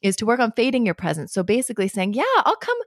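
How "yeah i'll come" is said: put-on high, sing-song yes to a child; agreeable parent. Parent answering child's call to play, high and agreeable.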